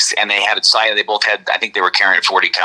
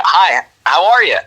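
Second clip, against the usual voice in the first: higher, lilting small-talk greeting; casual greeting; 6 semitones higher, 3 dB louder than usual. Retold or imitated. Storyteller shows how the stranger greeted him, casual hello. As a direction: imitate a breezy hello to a passer-by. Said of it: "Like that, right?".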